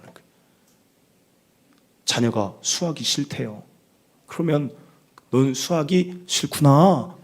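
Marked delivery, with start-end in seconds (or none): 5.3-7.2 slow, stretched counsellor-style sympathy; demonstrated empathy. Shown as a demonstration. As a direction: draw out the ending in mock-counsellor empathy. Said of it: "이렇게 일단 해야 된다니까요". (길게 늘여 공감하는 말투 시범)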